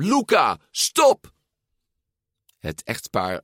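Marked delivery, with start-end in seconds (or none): 0.0-1.3 high, urgent shout; loud call. A narrator's reading. Mother calls to her son to stop, high and urgent. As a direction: call sharply after someone, pitched way up. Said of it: "riep ze met luide stem".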